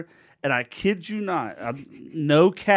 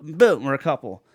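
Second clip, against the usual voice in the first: mocking Disney romance; 7 semitones higher, 6 dB louder than usual. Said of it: "it's almost like".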